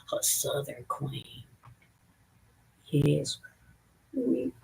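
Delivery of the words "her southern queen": slow, hushed whisper; slow Southern whisper. Retold or imitated. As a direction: breathe it slowly like a secret.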